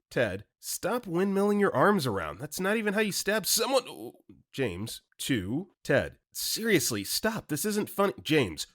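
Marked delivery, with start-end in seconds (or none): 0.6-8.1 much higher, pleading and scolding; higher frantic friend; rising panic. Acted. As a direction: beg him to stop, voice climbing. Ted scolding, then pleading.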